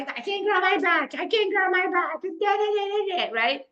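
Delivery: mock complaining. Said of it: "and I".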